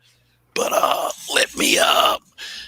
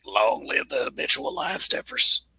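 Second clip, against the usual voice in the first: higher-pitched mock slogan voice; a lightly silly, raised voice for a rallying cry; put-on voice; 4 semitones higher than usual. Host signing off to a friend, in a put-on voice. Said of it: "don't say that in that voice".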